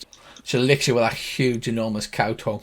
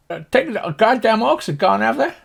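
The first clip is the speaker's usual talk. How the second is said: put-on high cowboy old-timer voice; high-pitched farmer character; Slim Pickens farmer; 9 semitones higher, 3 dB louder than usual. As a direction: ask in a high, cantankerous country voice. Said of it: "If you imagine Slim Pickens".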